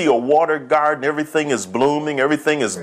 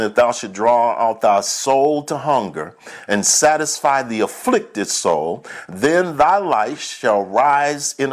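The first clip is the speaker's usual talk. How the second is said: slow, weighty scripture reading; reading the Bible aloud to the congregation, slow and solemn; 3 semitones lower, slower than usual. Acted. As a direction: lay each phrase down deliberately. Reads scripture slowly.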